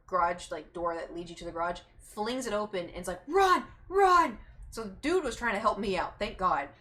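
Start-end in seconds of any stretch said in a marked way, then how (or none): 3.3-4.4 high, loud shouted warning; sudden high-pitched holler; retold urgent yell. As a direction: yell it as if urging a friend to escape.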